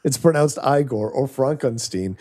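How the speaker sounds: Igor as "EYE-gor", Frankenstein as "FRONK-en-steen"; mock name correction. Cohost joking about a name exchange, mock correction. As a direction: quote the film, stretching Frankenstein into "FRONK-en-steen". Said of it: "I think of Young Frankenstein".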